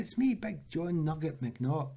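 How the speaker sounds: put-on toned-down Scottish accent. Teammate reminding footballer who he is, imitated Scottish accent. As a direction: announce the name in a light Scottish accent. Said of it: "I'll not do the full accent".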